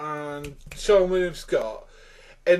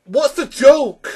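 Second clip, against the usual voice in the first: loud, high, drawn-out exasperation; exasperated; 11 semitones higher, 10 dB louder, slower than usual. Real, not acted. Reviewer baffled by the iBabe sketch, exasperated. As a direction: demand an answer slowly, pitch right up. Repeated exasperated catchphrase at film.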